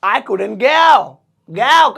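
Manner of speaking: very slow, each word of I couldn't go drawn out; slow dictation pace; slow model. Shown as a demonstration. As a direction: spell out I couldn't go slowly for learners. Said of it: "तो जैसे मैं जा नहीं पाया".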